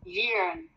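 "Yearn." sung out high like Chinese; yearn demo. Shown as a demonstration. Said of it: "Kayak orang ngomong bahasa Chinese ya". ("Yearn." dibaca nada tinggi seperti orang Cina)

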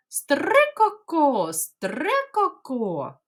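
slow, high chattering call; magpie chatter. Shown as a demonstration. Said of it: "як кричать сороченята?".

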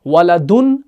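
ولدن ending in "-dun", rising. Shown as a demonstration. Teacher reciting the first case, -un ending on ولدن. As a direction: say ولدن as waladun, short u before the n. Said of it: "اس کی تینوں حالتیں کون سی ہیں؟".

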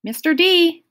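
high, timid appeal. A narrator's reading. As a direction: ask timidly for attention. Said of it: "Grover asked timidly".

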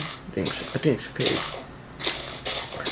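slow unvoiced whisper. Real, not acted. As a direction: whisper carefully, peering ahead. Whispering while sneaking.

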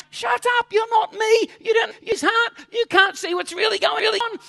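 high, loud rebuking shout; a loud, high shout of rebuke; Holy Spirit rebuking. Retold or imitated. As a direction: shout the believer down, sharply. Holy Spirit rebukes a judging believer.

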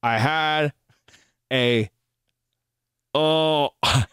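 slow words through locked jaw; jaw stuck open. Acted. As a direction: talk with mouth frozen open. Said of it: "my jaw is stuck".

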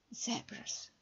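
"Zebras" with short e, ZEB-ras, whispered; British zebras. Shown as a demonstration. Teacher demonstrates British "Zebras", short e. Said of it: "британський варіант промовляння цього слова буде «е»".

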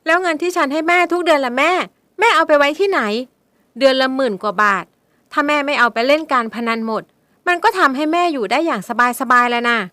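high, loud angry retort; bitter accusation. Acted. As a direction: throw it back at her. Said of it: "พ่นคำพูดที่ไม่น่าฟังออกมา".

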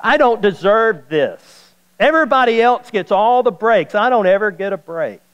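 a preacher mocking a complainer's whine; mock whiner. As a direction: whine it like someone sorry for themselves. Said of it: "they make statements like this".

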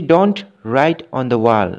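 very slow, word by word; slow dictation. Shown as a demonstration. Teacher slowly dictating an example sentence to students, very slow. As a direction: spell each word out slowly for the class.

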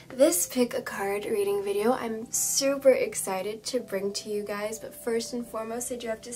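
slightly hoarse, scratchy throat. Real, not acted. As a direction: talk through a sore, hoarse throat. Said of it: "my voice is feeling a little hoarse".

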